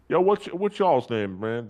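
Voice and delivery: loud, high and slow shout across the room; calling out. Real, not acted. Prisoner calling out loud and slow to the officers for their names. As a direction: call out to get the officers' attention.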